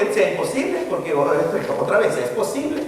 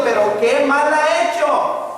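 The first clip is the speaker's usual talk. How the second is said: exasperated plea; 9 semitones higher than usual. Acted. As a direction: beg them to explain what he did wrong. Pleading governor's question.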